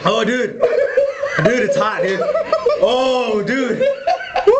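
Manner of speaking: gasping from chili heat; burning mouth. Real, not acted. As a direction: mouth on fire, gasping dude. Reacting to ghost chili burn.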